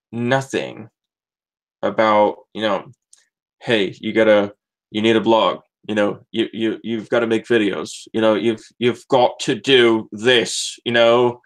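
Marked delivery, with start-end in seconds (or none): 3.6-10.8 lightly imitated South African accent; heavy South African accent. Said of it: "with this heavy South African accent".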